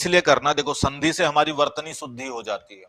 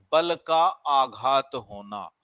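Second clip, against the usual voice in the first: slow repeat; slower than usual. Shown as a demonstration. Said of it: "जैसे हम कहते हैं बलाघात".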